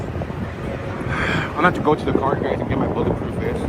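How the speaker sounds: breathless after being hit; gasping words out of breath. Real, not acted. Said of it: "He said he can't even catch his breath".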